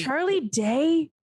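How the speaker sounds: stretched-out incredulous question. Real, not acted. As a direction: question the name slowly, baffled. Disbelief at the casting choice.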